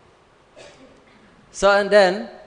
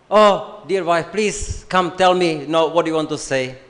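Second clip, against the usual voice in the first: sweet doting husband; 3 dB louder than usual. Pretend. Tired husband happily inviting his wife to talk, sweetly. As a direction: coax her lovingly, eager to listen.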